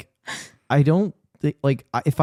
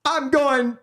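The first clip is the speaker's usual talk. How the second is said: monster voice; 11 semitones higher, slower than usual. Pretend. Quoting movie monster.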